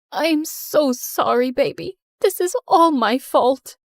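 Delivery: slow, sorrowful apology; tearful apology. Acted. Mother apologizing to her injured daughter, slow and sorrowful. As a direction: drag it out in guilt and grief. Mom apologizing at hospital bed.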